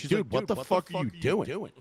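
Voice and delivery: drawn-out, incredulous mock protest; slow indignation, played in a retelling; retold indignant protest. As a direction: imitate an outraged relative, stretching the words. Retelling sister-in-law's protest at bag search.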